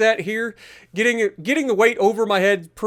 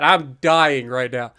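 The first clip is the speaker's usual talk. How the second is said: out of breath; 6 semitones lower, slower than usual. Real, not acted. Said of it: "I am so out of breath".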